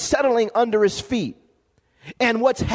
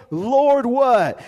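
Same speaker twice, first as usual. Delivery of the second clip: crying out; 4 dB louder than usual. Acted. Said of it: "he cried out".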